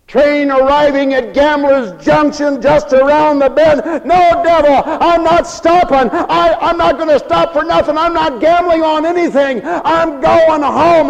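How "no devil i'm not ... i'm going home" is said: higher, determined refusal to the devil; firm refusal. Acted. The son refuses the devil, higher and determined. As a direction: push back against the tempter, voice raised.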